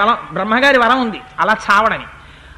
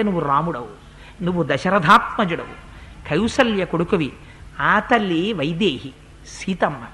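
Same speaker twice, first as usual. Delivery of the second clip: soft, lower, slowing demon voice; dying demon's plea; 4 semitones lower, 4 dB quieter than usual. Acted. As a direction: beg Rama quietly to be freed. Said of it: "వాడు అన్నాడు". (రాముడిని మెల్లగా వేడుకుంటున్న రాక్షసుడు)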